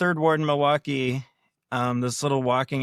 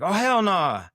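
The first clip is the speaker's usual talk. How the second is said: put-on loud, higher "hell nah" in a Black American accent; mock Black American dismissal, loud; imitated Black accent; 6 semitones higher, 4 dB louder, slower than usual. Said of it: "I'm doing black accent".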